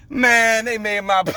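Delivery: words breaking up into laughter; cracking up mid-sentence; laughing while talking. Real, not acted. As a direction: tell it through building laughter. Cracking up telling story.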